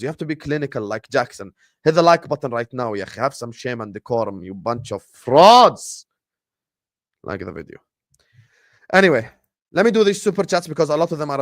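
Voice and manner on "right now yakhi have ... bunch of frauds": louder, drawn-out slow scold; mock scolding. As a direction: shame them slowly. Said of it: "scolding viewers".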